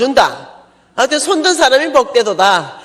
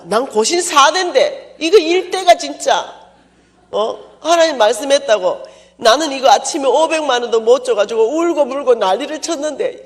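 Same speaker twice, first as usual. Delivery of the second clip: indignant outburst; 5 semitones higher than usual. Retold or imitated. Preacher reliving hurt pride, high indignant rant.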